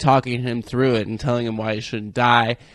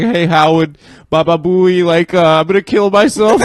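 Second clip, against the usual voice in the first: caller imitation; 6 semitones higher, 8 dB louder than usual. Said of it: "He's like".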